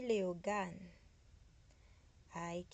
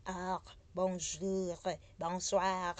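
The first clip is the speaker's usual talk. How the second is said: exaggerated French, drawn-out throaty r, louder; mock hard French; 5 dB louder, slower than usual. Shown as a demonstration. Showing how hard French is, hammed-up French accent. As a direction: ham up a heavy French accent. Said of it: "It's not hard like French".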